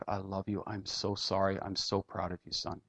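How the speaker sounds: low, soft, understated tearful plea; retold weeping. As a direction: quietly retell a weeping man's words. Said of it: "he just started to weep".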